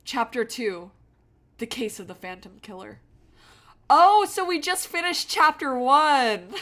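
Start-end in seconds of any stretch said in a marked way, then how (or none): 3.9-6.6 laughing. Real, not acted. Laughs at the game's twist.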